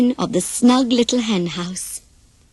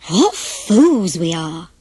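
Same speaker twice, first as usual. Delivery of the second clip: sad regret; 4 semitones lower, slower than usual. Acted. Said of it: "they said sadly".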